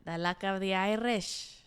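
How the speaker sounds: slow, drawn-out Irish accent attempt; amateur Irish lilt. Shown as a demonstration. Friend tries the Irish phrase for the podcast, Irish accent. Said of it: "supposed to be your Irish accent".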